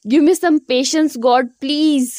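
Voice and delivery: slow, drawn-out plea for patience; begging God for patience, slowly; exasperated brother praying under strain, slow plea; exasperated prayer. Retold or imitated. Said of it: "आंखें बंद करके ज़ोर की सांस लेते".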